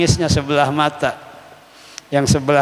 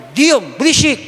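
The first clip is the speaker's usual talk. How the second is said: higher, sharp mock "shut up"; mock scolding; 9 semitones higher, 3 dB louder than usual. Teacher imitating someone scolding crying family, sharp. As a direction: snap at noisy mourners, hammed-up. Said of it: "Jangan diomelin".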